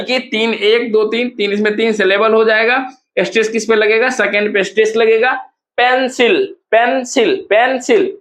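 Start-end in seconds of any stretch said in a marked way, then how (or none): 5.8-8.1 पेंसिल with PEN strong, falling away after; stress on first syllable. Shown as a demonstration. Teacher showing first-syllable stress, पेंसिल falling sharply from PEN. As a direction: repeat पेंसिल as separate falling beats. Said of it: "first पे आपका stress".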